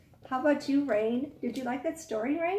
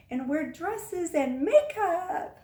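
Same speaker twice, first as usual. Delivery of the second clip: slow, louder, high laughing read; laughing while reading; 6 semitones higher, 5 dB louder, much slower than usual. Real, not acted. Teacher laughs reading a girl's fairy wish, slow and high. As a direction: crack up reading it.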